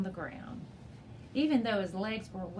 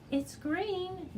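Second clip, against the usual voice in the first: higher, stunned disbelief; stunned at the green frog; 10 semitones higher than usual. A narrator's reading. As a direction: say it in shock.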